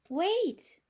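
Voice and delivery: high, firm wait; sudden stop. Acted. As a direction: halt everyone at once. Bear stops his friends.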